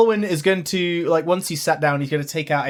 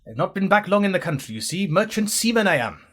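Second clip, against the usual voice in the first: put-on old-fashioned Welsh accent; 2 semitones higher than usual. Welsh sailor introducing himself to the van, slow Welsh accent. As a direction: introduce yourself as an old Welsh merchant seaman. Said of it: "From what century?".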